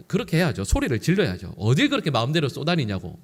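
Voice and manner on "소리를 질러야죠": ordinary talk, nothing marked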